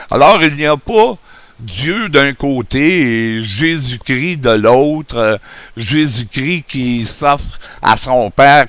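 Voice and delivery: speaking without dentures; gummy toothless speech. Real, not acted. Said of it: "comme un bon vieux vieillard édenté".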